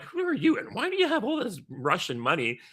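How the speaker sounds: border guard. Retold or imitated. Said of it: "because they're like".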